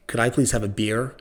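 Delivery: over-pronounced r in beer; retrying the order in a lightly Americanised voice; careful American accent. Retold or imitated. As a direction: ask again, enunciating for the barmaid. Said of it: "And then you go".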